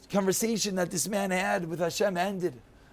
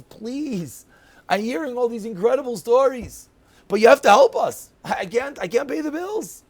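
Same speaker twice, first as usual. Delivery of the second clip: retold widow's plea, building louder and higher; pleading; 4 semitones higher, 5 dB louder than usual. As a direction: plead for help, voice rising. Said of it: "she pleads with her husband".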